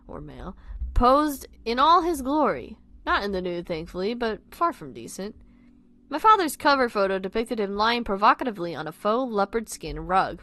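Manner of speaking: animated, expressive read-aloud; story narration. A narrator's reading. Reader telling listeners about a friend's dad, animated narration. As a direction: read it out with punchy emphasis.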